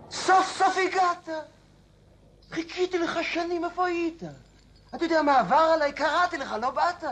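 very high, excited reproachful cry; overwrought welcome. Acted. Old man to the long-awaited Angel of Death, overwrought. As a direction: wail at a long-awaited guest.

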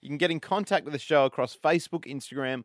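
presenter introducing a track; radio song intro. Acted. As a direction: announce it lively, then settle into the contact details. Back-announces song and show contacts.

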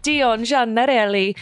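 Italian accent on the name. Shown as a demonstration. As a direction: give the name an Italian lilt. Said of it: "say his name like that every single time".

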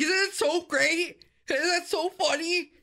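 begging you to find it hilarious; mock gushing coworker. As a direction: coworker showing a pig video, mock gushing. Coworker gushing over pig video.

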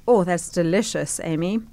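chewing while talking; mouth full. Real, not acted. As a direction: talk through a mouthful of food. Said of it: "so that I don't have to talk to the listeners with my mouth full".

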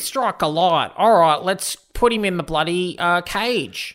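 lightly hammed-up Aussie slang; mock Aussie cowboy accent; Tarantino's Australian accent. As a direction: imitate a bad Australian film accent. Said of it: "the greatest Australian accent".

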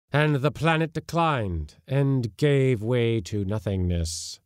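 solemn epic lament; ancient warrior spirit telling. Acted. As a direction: recount a dead world's glory. Ior tells his history.

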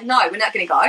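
understated Australian accent; light Aussie accent. Shown as a demonstration. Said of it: "I like to, like, keep it light".

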